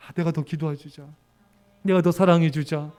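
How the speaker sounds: gentle resolve. Retold or imitated. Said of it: "불평 터뜨릴 때".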